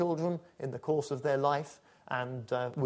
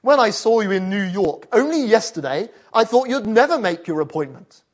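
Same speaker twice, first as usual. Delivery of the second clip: loud booming Grim Reaper voice, a bit higher; deep booming voice; 4 semitones higher, 8 dB louder than usual. Acted. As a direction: boom it out like Death himself. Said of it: "a deep voice boomed behind him".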